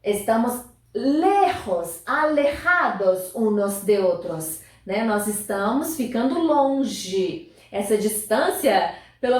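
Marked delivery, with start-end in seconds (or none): 0.0-3.3 slow model word. Shown as a demonstration. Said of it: "estar longe é lejos".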